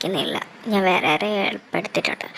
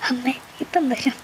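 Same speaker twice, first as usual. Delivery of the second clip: desperate whisper; 2 semitones higher than usual. Acted. Desperate woman reassures sick mother.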